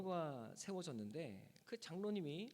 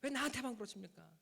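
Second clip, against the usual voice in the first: retold outburst at God; 4 semitones higher than usual. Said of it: "소리를 버럭 질렀답니다".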